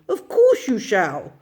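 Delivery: said through a chuckle; amused gentleman. A narrator's reading. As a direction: indulgent laugh. Gentleman agrees.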